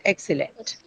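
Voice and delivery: "Excellent" with the weight on EX; "Excellent" said as EX-cel-lent, first part strongest; stress on first syllable. Shown as a demonstration. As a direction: stress the first syllable of "Excellent", let the rest fall away. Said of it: "So on the first syllable".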